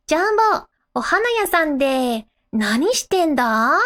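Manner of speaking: Yotsuba. Retold or imitated. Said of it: "Yotsuba is".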